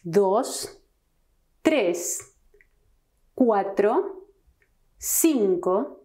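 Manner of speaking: each number spoken slowly, one by one, with a pause between; slow careful Spanish numbers. Shown as a demonstration. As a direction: model Spanish numbers clearly for learners. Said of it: "Let's start with numbers from zero to ten".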